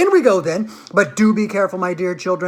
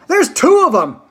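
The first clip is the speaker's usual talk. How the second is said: much higher, loud excited yell; shouting; 9 semitones higher, 6 dB louder than usual. A narrator's reading. A visitor shouting to the others about the little men. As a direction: shout it across the river. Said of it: "everybody started shouting at once".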